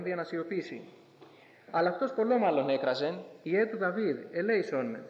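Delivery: measured, formal reading of the Gospel; scripture reading. Acted. Preacher reads Luke aloud to the congregation, formal scripture reading. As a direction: read the passage steadily, like a church lesson.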